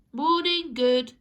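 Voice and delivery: loud, high, bright morning greeting; cheery greeting. Acted. Neighbours greeting each other in the street, cheery. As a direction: call out a cheery hello. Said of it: "people started saying".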